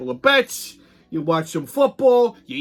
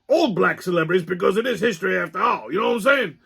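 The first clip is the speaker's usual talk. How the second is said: lightly voiced explaining sidekick; Pops; 2 semitones higher than usual. Sidekick telling his suggestion, lightly put-on character voice. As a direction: explain it as the sidekick, voice slightly lifted. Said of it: "you wanna tell them what your suggestion".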